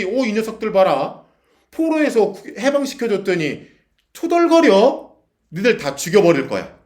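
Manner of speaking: high, loud, indignant rebuke; mock-divine wrath, loud and drawn out; angry God. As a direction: act out an outraged threat, voice leaping up. God's angry threat, acted out.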